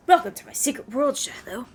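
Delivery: a hint of a sly spymaster; lightly voiced mysterious host. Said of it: "I feel like that's not the Spy Master's voice".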